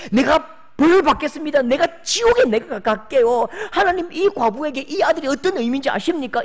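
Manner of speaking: high, loud, railing at God; desperate ranting. Acted. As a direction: shout down heaven in desperate fury. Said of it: "악다구니를 해대는 거죠".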